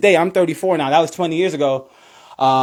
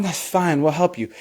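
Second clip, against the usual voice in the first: gentle reassurance; 4 dB quieter than usual. Retold or imitated. The sport voiced reassuring a newcomer.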